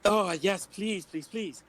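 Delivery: high, loud, eager please please please; eager pleading. Acted. Bard eagerly accepting the barkeep's stage offer, high begging. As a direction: beg like a bard who just got a gig.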